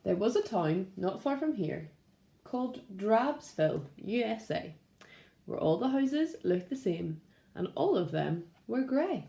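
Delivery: gentle, steady storybook narration; reading to children. A narrator's reading. Teacher reading a story to Primary One, gentle storytelling. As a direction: tell it like a picture book at story time.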